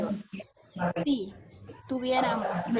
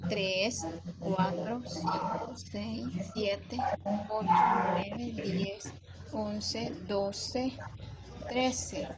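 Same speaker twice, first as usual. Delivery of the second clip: slow, deliberate syllable count with pauses; teacher counting metric syllables one by one; 3 dB quieter, much slower than usual. Shown as a demonstration. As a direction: tick off each syllable for the class. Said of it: "Ahora regresamos y contamos las sílabas métricas".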